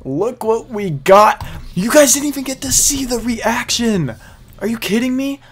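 high, loud disbelieving shouts; real excited yelling at a rare item. Real, not acted. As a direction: yell in total disbelief at the drop. Reacting to rare drop.

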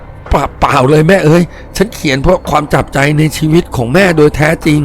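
stumbling start, then earnest denial; frightened stammer. Acted. Startled painter answering the apparition, stammering denial. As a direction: trip on the first syllable in fright. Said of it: "ผมตกใจกลัว ตอบตะกุกตะกัก".

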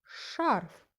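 "Шарф" as one drawn-out syllable; one stressed syllable. Shown as a demonstration. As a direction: stretch the vowel of "Шарф" with emphasis. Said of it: "тільки один склад".

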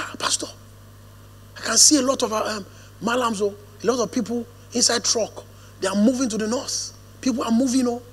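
soft, hushed, anxious retelling of a caller; a hint of a frightened friend whispering news; hushed worried caller. Frightened friend's phone call retold.

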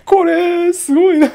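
high, loud disbelief; loud exasperation. Real, not acted. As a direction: blurt it out in sarcastic amazement.

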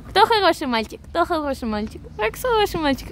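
talking to a dog. Real, not acted. Praising the dog.

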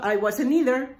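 quick linked delivery; fast connected speech. Shown as a demonstration. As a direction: run I wasn't either together so the n blends. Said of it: "como lo dices rápido".

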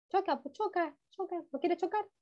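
mock pleading with the letters; playful coaxing. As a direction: coax the letters like shy toys.

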